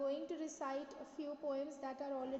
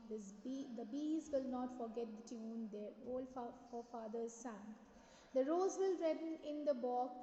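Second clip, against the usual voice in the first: measured recital with lilting line openings; teacher reciting poetry to a class; poem recitation. Acted. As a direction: read the verse aloud in rounded, deliberate phrases.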